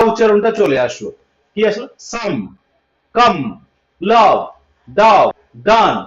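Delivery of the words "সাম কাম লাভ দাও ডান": সাম, কাম with an open 'a'; spaced teacher list, open 'a' in কাম; 'a' sound demo. Shown as a demonstration. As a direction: punch out লাভ, ডান one at a time. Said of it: "মানে এখানে আ উচ্চারণগুলোকে".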